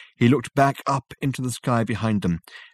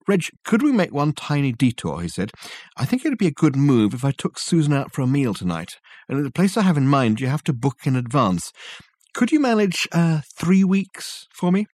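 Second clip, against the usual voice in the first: sheepish Richard; 4 semitones higher than usual. Acted. Richard asking Reg for a time-travel detour, sheepish. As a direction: ask the favour tentatively.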